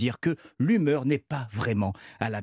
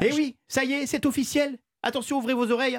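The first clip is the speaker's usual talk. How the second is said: much higher, bright big reveal; excited announcement; 12 semitones higher than usual. Acted. To listeners, announcing the carpool bonus with excitement. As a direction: announce the news like a herald, pitch up. Announcing official good news.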